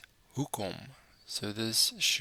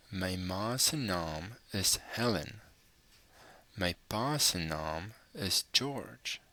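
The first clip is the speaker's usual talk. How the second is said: measured Afrikaans read-aloud, phrase by phrase with pauses; careful passage reading. Shown as a demonstration. Teacher reading the passage for learners to follow, careful phrase-by-phrase reading.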